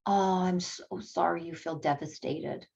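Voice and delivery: the right, caring answer to a friend's heartbreak; sympathetic reply. Retold or imitated. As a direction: let the sorry land quietly and kindly.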